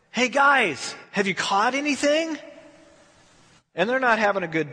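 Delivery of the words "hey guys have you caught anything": a raised, carrying shout from the shore; hollered call. Retold or imitated. Jesus calls to the fishermen in the boat: high hollered call. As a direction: call it out across the water, pitched higher. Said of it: "Jesus hollers out to him".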